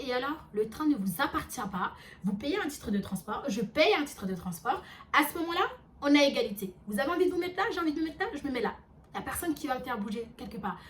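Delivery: emphatic, standing your ground; retold defiant retort. Narrator claims her place on the train, defiant. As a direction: re-enact a heated comeback, rising in pitch midway.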